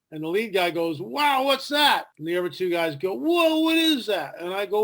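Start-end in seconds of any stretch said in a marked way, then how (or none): 1.0-2.1 surprised. Retold or imitated. Lead scout spots a UFO. 3.1-4.3 slow, high, astonished whoa; surprised. Retold or imitated. Two scouts spotting the silver disc, slow high astonishment.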